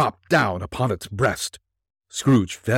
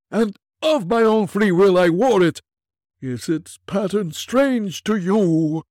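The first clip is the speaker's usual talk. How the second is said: unearthly voice; 10 semitones higher, 5 dB louder than usual. Acted. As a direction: intone like a chained spirit. Ghost speaks, slow and high.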